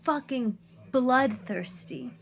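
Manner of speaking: BLOODTHIRSTY drawn out slowly and punched high; exasperated emphasis. Real, not acted. Woman venting about hostile commenters, exasperated stress on bloodthirsty.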